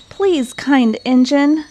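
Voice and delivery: high, slow earnest plea; pleading cry. A narrator's reading. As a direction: beg the kind engine. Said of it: "cried all the dolls and toys together".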